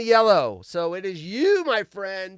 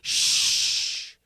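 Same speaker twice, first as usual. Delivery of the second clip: hushing; 9 semitones higher, 5 dB louder than usual. Retold or imitated. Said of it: "it was like".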